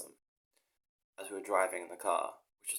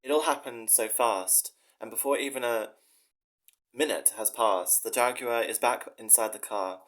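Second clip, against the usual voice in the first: louder, measured reading of his own story; earnest dramatic story reading; 4 dB louder than usual. Acted. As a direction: read it like a dramatic short story. Reads his story aloud.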